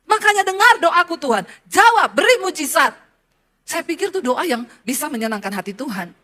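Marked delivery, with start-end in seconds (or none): 0.1-2.9 demanding prayer. Retold or imitated. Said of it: "saya tuntut Tuhan".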